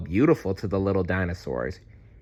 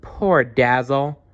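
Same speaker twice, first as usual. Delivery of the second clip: cried; 5 semitones higher, 4 dB louder, slower than usual. Acted. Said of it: "Maya cried".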